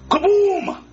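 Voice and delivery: sudden high, swelling boom; mimed explosion. Acted. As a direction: burst out like the bomb going off. Villain imitates his bomb exploding.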